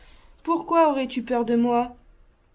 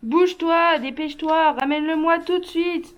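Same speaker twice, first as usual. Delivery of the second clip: higher, sharp demands to hurry; impatient order; 3 semitones higher than usual. Acted. Son ordering his mother to fetch his fatigues, impatient. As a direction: push her to move, now.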